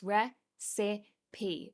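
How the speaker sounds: Re-si-pi, each syllable split slowly. Shown as a demonstration. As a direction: say Re-si-pi in three slow beats. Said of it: "There are three sounds".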